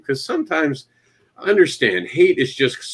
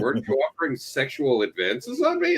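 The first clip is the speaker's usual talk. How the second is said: mock innocent question; 6 dB quieter than usual. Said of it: "I was like".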